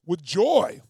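loud, drawn-out joy; punched up with joy; joyful. Shown as a demonstration. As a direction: let JOY ring out, long and loud. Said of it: "I'll say it with joy".

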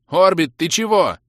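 high, loud puzzled call; bewildered shout. A narrator's reading. Mage puzzled by the elf's tears, bewildered shout. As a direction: yell it out in bewilderment. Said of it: "С недоумением крикнул я".

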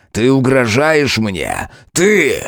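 громко, высоко, медленно; выкрикнуть в бешенстве; ярость. A narrator's reading. Король в ярости. (король кричит на демоницу)

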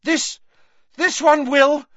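high, breathless gasped words; gasping. Acted. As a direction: gasp it out in panic. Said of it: "gasped Harry".

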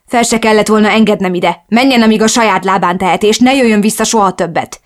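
fenyegető hang; threatening. Acted. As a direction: threaten her to leave.

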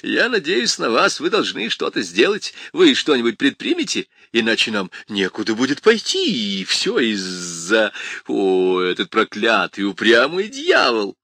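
anguished complaining. Acted. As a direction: complain in despair. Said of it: "пожаловался он врачу".

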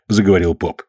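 ordinary delivery

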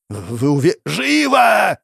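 high, loud furious yell. Acted. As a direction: scream the order over him. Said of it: "завопил мужчина".

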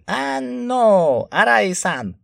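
high, loud indignant cry; loud outburst. A narrator's reading. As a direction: burst in shouting. Reiko bursts in defending.

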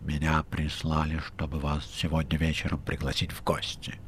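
тише, таинственно, чужим голосом; говори по секрету, вполголоса. Acted. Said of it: "сказал таинственно". (рыжий таинственно, тише)

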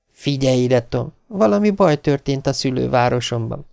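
wife's voice. Acted. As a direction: tell him the trouble back home. Beverly explains.

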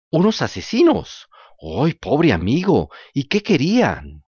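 slow, loud mock dismay; fake-shocked fox. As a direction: overplay the outrage like a sly fox.

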